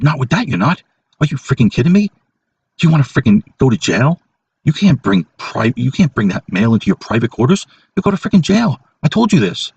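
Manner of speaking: hammed-up indignant coworker warning of jail; imitating coworker's scolding. Retelling coworker Corey scolding him over the mail, mock outrage.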